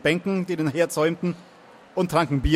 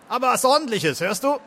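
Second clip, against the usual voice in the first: high-pitched heckling demand; a rowdy guest jabbing at the singer; loudmouth heckling; 8 semitones higher than usual. Acted. Loudmouth guest demands a proper song from the singer, high heckle. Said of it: "der Schreihals von eben".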